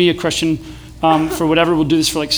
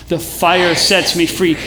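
slow, measured group chant; deliberate, spaced-out declaration; a little louder; 2 semitones lower, much slower than usual. Shown as a demonstration. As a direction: lead the chant with a touch more volume. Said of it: "Say it a little bit louder".

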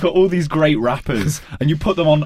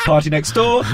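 bingo caller; 3 semitones higher than usual. Retold or imitated. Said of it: "like a bingo caller".

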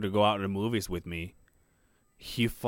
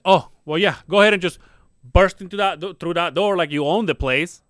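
loud, biting sarcasm, higher; sarcastic outburst; 5 semitones higher, 7 dB louder than usual. Retold or imitated. Dad loudly mocking daughter's boyfriend barging in, sarcastic. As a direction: lose it at the kid, mocking and loud. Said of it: "I just fucking lost it".

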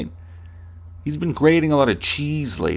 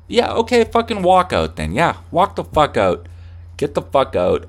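much higher, loud, furious dismissal; acted angry shout; 5 semitones higher, 4 dB louder than usual. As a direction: yell at them to get out. Acted fight, telling them leave.

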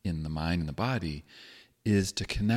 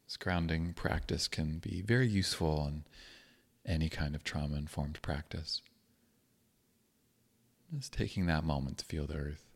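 calm, unhurried meditation guidance with long pauses; guided meditation. Acted. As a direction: gently guide listeners into grounding, leaving space between phrases.

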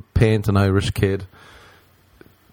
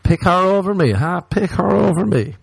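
much higher, hammed-up jealous protest; mock indignation; 10 semitones higher than usual. Friend snubbed for a rapper on the phone, mock indignant. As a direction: whine it as a put-on jilted friend. Jilted caller mocked in a joke.

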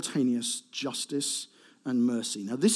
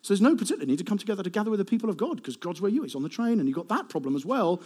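quoting people; 4 semitones higher, faster than usual. Retold or imitated. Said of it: "there'd be people who say".

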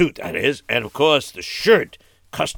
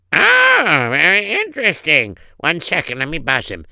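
intrigued secretary; 5 semitones higher, 4 dB louder than usual. Acted. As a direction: react with exaggerated interest as the secretary. Secretary reacts to visitor.

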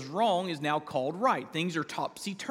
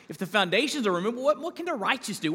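fast, higher, urgent plea as David; anguished question; 5 semitones higher, faster than usual. Acted. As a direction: ask it as if the ground is falling away. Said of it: "And he asks the question".

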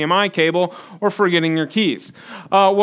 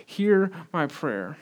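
softly pleading prayer, slowing at the end; quiet, earnest appeal to God; pleading request; 9 dB quieter than usual. Acted. David asking God to hear his prayer, softly pleading. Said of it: "he's making a request".

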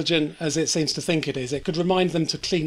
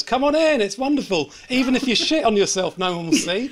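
higher, lightly acted swimmer's invitation; imitating beckoning swimmer; 5 semitones higher than usual. Swimmer coaxing others to join him, lightly mimicked beckoning. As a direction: call them into the water, mildly hammed-up. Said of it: "that guy swimming in the water and goes".

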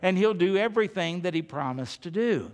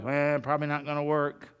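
put-on doubtful little boy; 5 semitones lower, 4 dB quieter, faster than usual. Doubting boy's inner voice.

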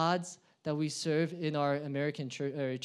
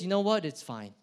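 dismissive chill God. Acted. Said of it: "And God says".

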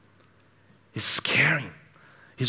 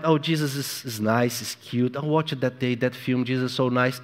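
mock shallow believer. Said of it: "no option for you just find".

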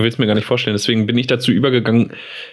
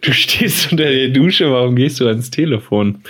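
baffled caller; 2 semitones higher than usual. Retold or imitated. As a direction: play the stunned friend on the phone. Friend's baffled reply retold.

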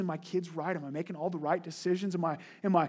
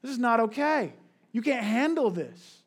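scolding parent; 3 semitones higher, 5 dB louder than usual. Retold or imitated. Parent scolding toddler near stove.

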